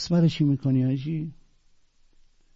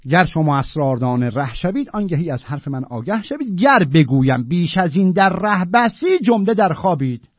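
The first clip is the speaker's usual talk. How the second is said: higher and louder verse recital; poem recitation building up; 5 semitones higher, 6 dB louder than usual. Acted. Teacher declaiming Attar's warning to the class, building recital. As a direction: build the couplet to a ringing close.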